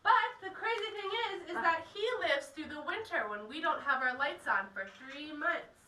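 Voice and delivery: loud tour guide voice; projecting to a group. Real, not acted. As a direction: speak up so the whole group hears.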